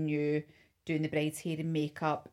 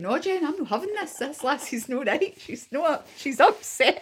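retold insistence; 10 semitones higher, 7 dB louder than usual. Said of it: "But I'm saying".

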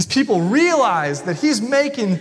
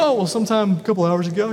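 offhand mock reply; much faster than usual. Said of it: "He says".

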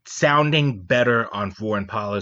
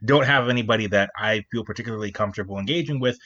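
talking while chewing gum; words around a wad of gum. Real, not acted. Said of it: "Sorry, chewing gum".

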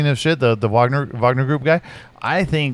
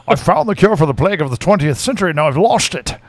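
put-on light Scottish Sean Connery accent; mild Scottish-accented movie line; Sean Connery impression. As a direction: quote the line in a loose Scottish burr. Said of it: "best Sean Connery movie".

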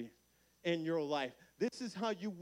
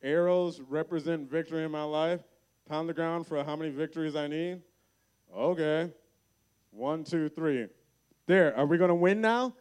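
a doubtful king repeats the orders back, louder and louder; incredulous king; 9 dB louder than usual. Retold or imitated. King mocking the prophet's orders, disbelieving and getting louder. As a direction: scoff it back as a king who doesn't buy it. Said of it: "this king is like".

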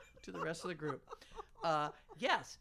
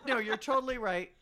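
louder mock agreement; imitating Alex; 6 dB louder than usual. Teasing a friend who agrees then wavers, emphatic mock agreement. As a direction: agree emphatically, half laughing. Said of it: "Alex's second most used word".

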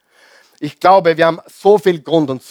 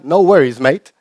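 put-on Australian accent. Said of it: "die Australier".

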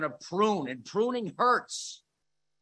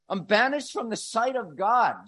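"banished" pushed higher and louder; intensified repeat; 5 semitones higher, 6 dB louder than usual. Acted. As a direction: lean harder on "banished" this time. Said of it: "What is that? It's hell".

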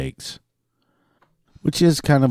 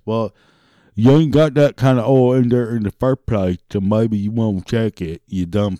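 louder, angry comeback; heated retort; 3 dB louder than usual. Pretend. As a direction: snap back at the customer.

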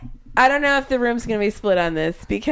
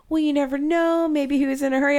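mimicking Dave; 5 semitones higher than usual. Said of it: "And Dave's like".

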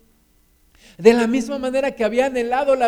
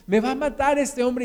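higher, worried plea without shouting; a touch of anguish, pitched up; 4 semitones higher than usual. Acted. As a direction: voice Jacob's mounting worry, mildly acted. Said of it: "Y se angustia".

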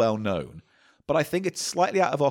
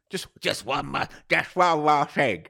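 a lightly voiced Columbo, slow and drawn out; Columbo impression; slower than usual. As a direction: tease him like the scruffy detective, slowly. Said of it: "You like Columbo?".

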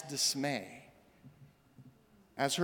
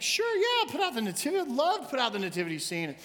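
much higher, hammed-up enthusiastic agreement; over-eager yes; 7 semitones higher than usual. Shane agreeing to set up the nativity, hammed-up eager. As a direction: jump at the chance, mock keen. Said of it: "And Shane was like".

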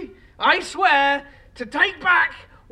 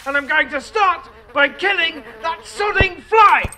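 furious vow. Acted. Vows to kill fly.

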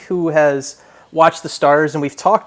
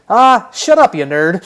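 mock yell; 3 semitones higher, 5 dB louder than usual. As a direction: imitate a coach shouting a dismissive put-down. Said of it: "yells at him and says".

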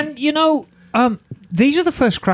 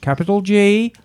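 put-on deliberate BBC announcer accent. Host spelling the sponsor's web address, in a mock BBC voice. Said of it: "in my best B B C voice".

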